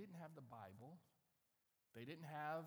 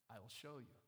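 calm, softer, lower reply; unruffled God; 5 semitones lower, 4 dB quieter than usual. Acted. God answering Abram's question, calm and low.

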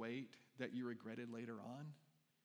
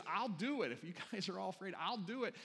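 put-on higher and louder, bold young David; eager volunteer; 5 semitones higher, 3 dB louder than usual. Pastor voicing young David volunteering to fight, eager and loud. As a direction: step forward, I've got this.

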